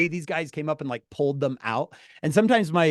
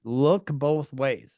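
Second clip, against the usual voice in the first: slow, drilled-in parent's warning; parental reminder; 2 semitones lower, much slower than usual. Retold or imitated. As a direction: spell it out like a parent repeating a lesson. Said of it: "my parents had ingrained in me".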